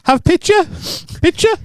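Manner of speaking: hammed-up pidgin request; mock broken English. Shown as a demonstration. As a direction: talk like to a Spanish waiter. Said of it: "You go".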